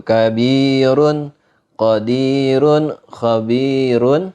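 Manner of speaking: kabirun, qadirun, khabirun with long ee, light r; thin ro. Shown as a demonstration. Teacher repeating examples, thin ro in kabirun, qadirun, khabirun. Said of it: "yakni tipis".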